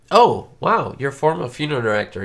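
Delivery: high, loud delighted wow; light up at the news; surprised. Real, not acted. Reacting to a viewer comment.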